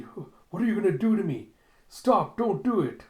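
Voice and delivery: high, loud, frightened cries; hammed-up panic; panicked pleading. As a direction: beg them to stop in terror. Ito strapped down, pleading.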